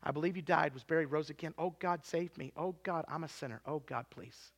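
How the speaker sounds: retold simple prayer. Girl praying to God to save her, retold quiet prayer. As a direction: softly plead with God, voice sinking at the end. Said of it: "she just prayed".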